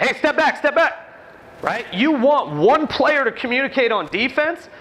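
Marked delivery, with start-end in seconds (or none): 0.0-1.0 echoed call. Shown as a demonstration. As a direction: show the team echoing the call. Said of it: "echoing that?".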